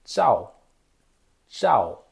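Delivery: tchau with the tongue curled back; unaspirated retroflex tchau; Mandarin zhao. Shown as a demonstration. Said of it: "vou colocar Z H A O".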